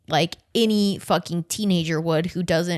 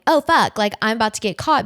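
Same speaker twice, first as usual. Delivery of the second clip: higher, louder, rushed mock panic; panicked realization; 4 semitones higher, 4 dB louder than usual. Host voicing the teacher realizing she'll be caught, in panic. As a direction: blurt it like you've just realized you're caught. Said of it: "she's realizing".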